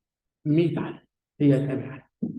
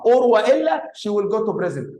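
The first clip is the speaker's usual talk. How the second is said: slow read-out; 2 semitones higher, slower than usual. Shown as a demonstration. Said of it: "بقول إيه؟".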